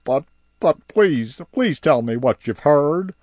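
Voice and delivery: high, loud begging creature voice; High begging Barnaby, high and loud; pleading High. Acted. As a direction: beg for the news.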